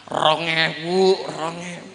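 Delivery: mock attendant drawl; toilet attendant call. Toilet attendant asking fee.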